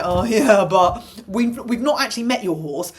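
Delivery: lightly voiced smug insurance clerk; mocking insurer voice. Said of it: "the insurance company go".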